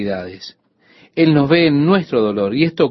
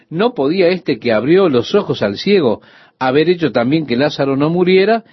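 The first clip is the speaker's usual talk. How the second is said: mock challenging question; 3 semitones higher than usual. Preacher voicing the doubting crowd, pointed question. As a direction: ask it like a skeptic in the crowd. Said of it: "Esa era la pregunta".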